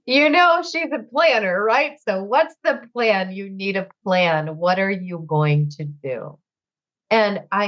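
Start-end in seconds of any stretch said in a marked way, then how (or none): 0.1-6.4 imitating big brother. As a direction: quote the brother kindly pressing for a plan, pitch rising then easing. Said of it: "He goes".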